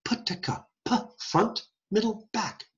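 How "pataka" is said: "pataka" as three short, soft, separate stops; crisp syllable demo. Shown as a demonstration. Lecturer showing nursery rhyme mouth positions, crisp syllable demo. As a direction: tap out "pataka" lips, tongue tip, tongue back. Shows syllables inside patty cake.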